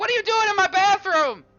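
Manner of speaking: put-on very high, loud, squeaky little-boy voice. Voicing a kid who hears someone in the bathroom: little boy voice. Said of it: "The kid is going to, like".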